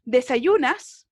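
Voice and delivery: slow, deliberate Spanish gloss; slow translation. Shown as a demonstration. Teacher translating the question for her class, slow. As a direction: say it slowly as a translation. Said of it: "En este caso".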